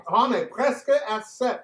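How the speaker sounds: put-on hammy English-accented French; foreign accent in French. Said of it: "I'm never really sure if he's trying to speak French".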